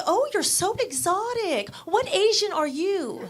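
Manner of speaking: gushing high casting director; high, gushing, slowing on the question. Retold or imitated. Casting director gushing at an actress, mock high voice. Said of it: "The casting director was like".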